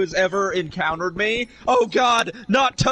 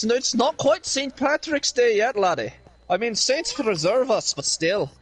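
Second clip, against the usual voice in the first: playful stage Irish, ending on "laddie"; mock Irish accent. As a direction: ham up an Irish lilt. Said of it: "in an Irish accent now".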